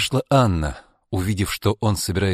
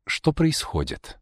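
higher, slow, worried question; agitated; 7 semitones higher, 3 dB quieter, slower than usual. A narrator's reading. Alexei interrupts his parents' quarrel, agitated. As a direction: ask it uneasily, pitch raised. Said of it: "взволнованно спросил Алексей".

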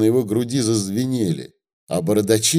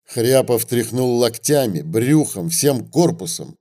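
plain reading voice

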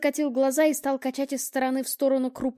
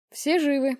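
brisk report; 4 semitones higher, 4 dB louder than usual. Acted. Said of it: "бодро отрапортовал".

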